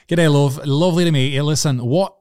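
hammed-up Scottish lilt posing as Irish; fake Scottish accent. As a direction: bloke faking a Scottish accent to a girl. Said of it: "That's a Scottish accent".

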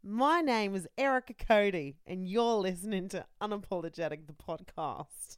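attempted Australian accent, slowing down; slow radio ident in an Australian accent. Shown as a demonstration. Podcast host showing off on request, Australian accent. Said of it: "do an Australian accent".

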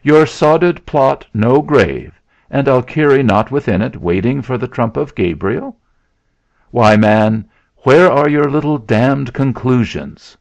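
high, loud, scornful challenge; heated, jeering outcry; crying out. A narrator's reading. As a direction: burst out in derision at the accuser. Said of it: "cried Dix".

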